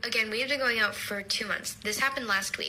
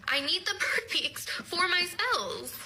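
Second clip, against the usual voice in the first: mock witchy voice; 6 semitones higher, slower than usual. Witchy answer continues, laughing.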